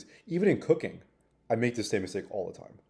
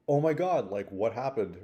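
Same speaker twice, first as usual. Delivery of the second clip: mock shocked villagers; 4 dB louder than usual. Villagers shocked at broken leg.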